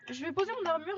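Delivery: loud frustrated outburst; raging gamer. Real, not acted. Killed in one hit in game.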